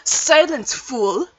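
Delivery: stern judge rebuke. Acted. Judge scolds the witness.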